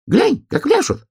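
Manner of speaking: very high chirpy bird voice; a little bird marvelling; Snegir bird. A narrator's reading. Bullfinch marvels at the dancers, very high chirpy voice. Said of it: "сказал Снегирь".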